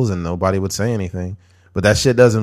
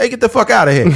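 put-on Italian mobster voice, higher pitch; 13 semitones higher, 4 dB louder than usual. Joking about being cast in a movie as some Italian mobster: put-on Italian mobster voice. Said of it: "me playing, like, some Italian mobster".

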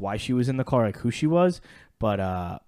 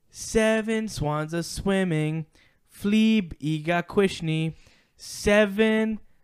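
put-on made-up foreign language, higher pitch; 7 semitones higher than usual. Retelling a joke from the Drake and Josh movie, imitating a kid speaking gibberish. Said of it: "is speaking some weird language".

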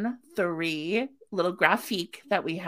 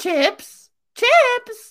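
very high, shrill, full-volume vendor-style cry; 10 dB louder than usual. Bringing back an old bit for the other speaker: Chip Lady voice. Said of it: "I haven't heard like the Chip Lady voice".

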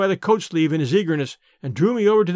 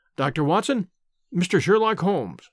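ordinary delivery, nothing marked

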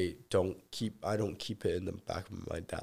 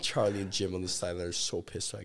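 ordinary talk

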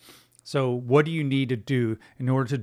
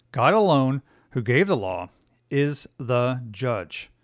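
slow, deliberate, each word carefully spaced out. Explaining who judges God's law, a line given a slow, deliberate delivery. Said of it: "I said that slowly for everybody to understand".

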